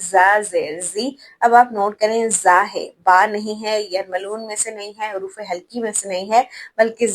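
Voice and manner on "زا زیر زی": زی said slowly, with a hum through the nose; slow tajweed demo with nasal hum; nasal ghunna demo. Shown as a demonstration. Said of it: "یعنی گنگناہٹ کی آواز ناک سے نکالیں گے".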